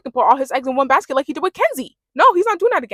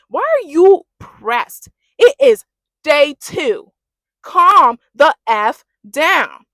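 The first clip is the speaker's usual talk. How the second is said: drawn-out, louder disbelief at TT; slow exasperated scolding; 2 semitones higher, 5 dB louder, much slower than usual. Real, not acted. Scolding TT for getting angry on day two, slow and louder. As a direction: spell each word out, fed up.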